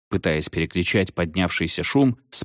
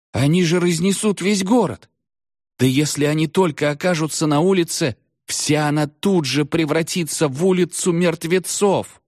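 put-on panicked boy; 10 semitones higher than usual. A narrator's reading. Oror panics about the dead.

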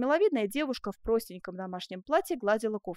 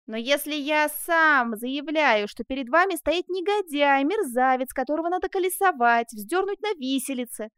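loud, higher, emphatic outburst; vehement self-denunciation; 4 semitones higher, 5 dB louder than usual. Acted. Man begs jailer to jail him, vehement. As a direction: hammer out each insult against yourself. Prisoner denounces himself to jailer.

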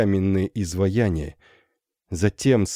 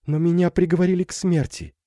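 high, quick confession; frightened girl; 10 semitones higher, faster than usual. Acted. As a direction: blurt out the terrible news. Girl reveals death sentence. (испуганно, высоко и быстро)

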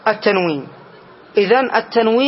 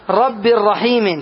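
slow example; much slower than usual. Shown as a demonstration. Teacher repeats the example slowly.

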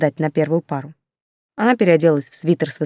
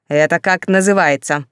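mild roar; 3 dB louder than usual. Acted. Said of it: "взревела она".

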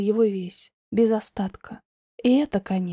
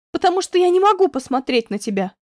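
loud, higher outburst of despair; desperate exclamation; 6 semitones higher, 5 dB louder than usual. A narrator's reading. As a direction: blurt it out in anguish. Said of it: "В отчаянии воскликнула я".

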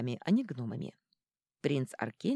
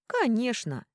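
higher, louder exclamation; exclaiming; 7 semitones higher, 6 dB louder, slower than usual. Acted. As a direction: exclaim it eagerly. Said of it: "воскликнул Шут". (шут восклицает)

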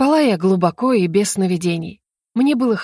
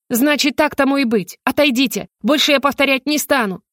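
higher, resolute order; firm command; 5 semitones higher than usual. Acted. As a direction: stand your ground and order them aside. Heroine orders governor to step aside. (твёрдо, решительно приказывает)

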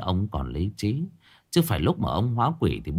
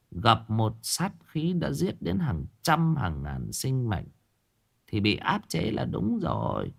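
put-on old grandmother; 4 dB quieter than usual. Old woman Vân explains, lower voice.

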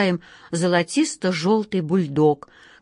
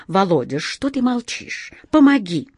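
испуганная мольба; 3 semitones higher than usual. Acted. Зовёт на помощь.

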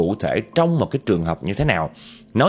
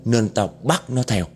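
vengeful ghost woman. Acted. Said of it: "cái vong nữ ... trả lời đó".

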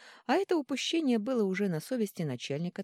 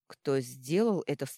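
hoarse; 2 semitones lower, 4 dB louder than usual. Acted. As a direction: ask it with a hoarse rasp. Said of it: "хрипло спросил король".

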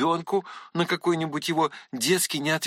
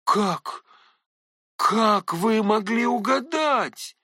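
stammering; 5 semitones higher, slower than usual. A narrator's reading. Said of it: "пролепетал было я, как дурак".

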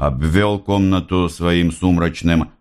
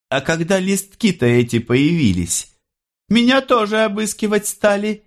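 much higher, proud little brag; boastful. A narrator's reading. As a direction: show off to her son, high and pleased. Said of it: "не без хвастовства заявила она". (хвастливо, высоким голосом)

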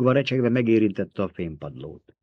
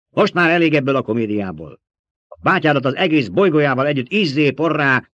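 raised, louder imperial threat; angry outburst; 5 semitones higher, 6 dB louder than usual. A narrator's reading. Emperor threatens the girl's planet, angry outburst. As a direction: lash out in rising indignation.

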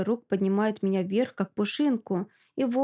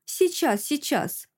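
much higher, bright chirpy call; pleased chirping; 6 semitones higher, slower than usual. Acted. Alka answering the knock at the door, chirpy and pleased. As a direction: sing it out, eagerly pleased. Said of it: "щебечет довольно Алька".

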